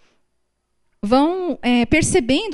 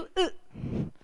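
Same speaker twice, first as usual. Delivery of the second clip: strained throat grunt; 5 semitones higher, 14 dB quieter than usual. Shown as a demonstration. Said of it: "aqui da garganta".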